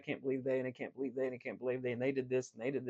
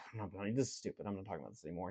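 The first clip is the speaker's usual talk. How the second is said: retold mad refusal; 6 semitones lower, 8 dB quieter, much faster than usual. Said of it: "she got kinda mad".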